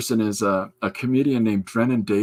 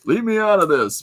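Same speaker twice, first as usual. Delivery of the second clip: high, loud imitated cat protest; Doug the cat; 9 semitones higher, 5 dB louder than usual. Black and white cat objects to the others, loud. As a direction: protest loudly in a raised cartoon voice. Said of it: "they have this whole".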